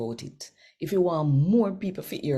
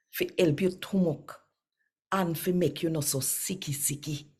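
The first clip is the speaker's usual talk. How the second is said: scripture reading. Acted. Reading the day's Bible chapter to viewers, measured and earnest. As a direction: read the passage like a devout daily reading.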